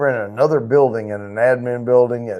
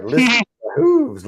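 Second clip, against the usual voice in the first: high squeaky voice on Listen to my hooves; a comedian's goofy high-voiced movie line; squeaky movie quote; 11 semitones higher than usual. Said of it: "And he's like".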